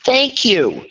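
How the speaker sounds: high, emphatic mock gratitude; vindicated relief. Upset wife answering sponsor's sympathy, emphatically vindicated. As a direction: pitch jumps up, finally feeling understood.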